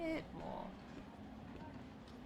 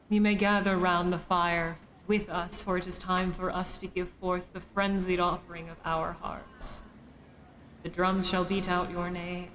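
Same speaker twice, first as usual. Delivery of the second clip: slow, solemn cult incantation; ritual recitation; slower than usual. Acted. Streamer welcoming new cultists to the fire, ritual recitation. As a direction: intone it like a rite.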